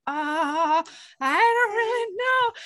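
high-pitched, coy hesitation; mock flustered heroine. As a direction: squirm through it in a high voice. Retelling heroine flustered by flirting.

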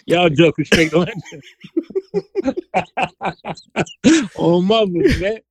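put-on DC accent, DC slang. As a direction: talk like a guy from DC. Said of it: "I'm trying to get my D C accent".

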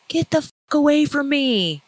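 imitating the biker's high-pitched angry yell; mock-furious biker outburst; retold angry yell. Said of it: "He yelled at me".

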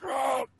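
short high whoosh of flames; imitated flame roar. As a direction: voice a quick burst of raging fire. Imitating flames raging in the air.

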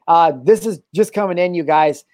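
lightly done news anchor; newscaster voice. Pretend. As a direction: announce it like breaking news. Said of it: "that was like my newscaster voice".

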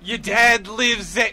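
hammed-up hacker announcement; mock hacker voice. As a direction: play the hacker cracking it. Playing hacker doxing dad.

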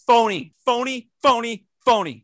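high, loud, repeated accusation; indignant heckling. Real, not acted. Heckling a co-host who abandoned corn, loud indignant jeer.

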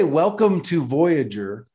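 "Welcome to Voyager" said slowly, like greeting someone named Voyager; slow demo. Shown as a demonstration. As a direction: lay it out slowly. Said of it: "if I say".

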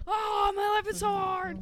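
high self-pitying whine; mock whining. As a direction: sigh it out like a drama queen. Mocking whining wrestler.

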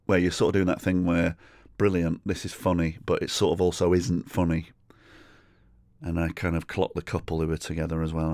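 ordinary talk, nothing marked

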